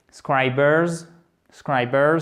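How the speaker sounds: scribers with SCRI strong, BERS weak; building from stressed syllable. Shown as a demonstration. Teacher builds the word from its centre, scribers stressed on SCRI. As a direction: drill scribers, leaning on the first syllable. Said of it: "vous partez de cette syllabe".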